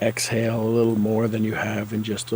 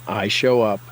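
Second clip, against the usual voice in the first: bolder affirmation. Shown as a demonstration. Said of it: "Say it again".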